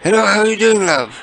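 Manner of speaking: high, sugary put-on caller voice; sweet fake-friendly caller; prank caller voice.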